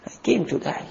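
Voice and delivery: quiet, resigned repeat; fading repeat. Acted. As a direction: let it fall away softly.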